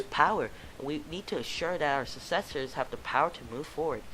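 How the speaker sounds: lightly voiced eager teacher pitching her job; a hint of a keen recruiter; earnest teacher. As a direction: sell teaching with a touch of zeal. Teacher character voice at booth.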